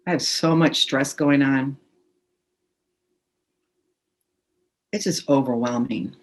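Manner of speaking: calm, measured tapping script. Acted. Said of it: "just say out loud".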